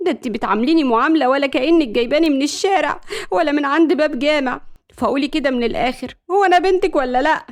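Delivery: exasperated protest, pitch jumping up; mildly petulant outburst; indignant daughter. Acted. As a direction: whine at mother about unfair treatment.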